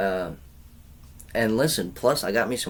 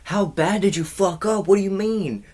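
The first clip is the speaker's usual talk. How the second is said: high mock voice; 11 semitones higher, 5 dB louder than usual. Retelling barber exchange.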